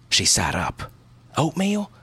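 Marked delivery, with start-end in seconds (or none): 1.4-1.9 put-on eager child. A narrator's reading. Excited child asking about cookies.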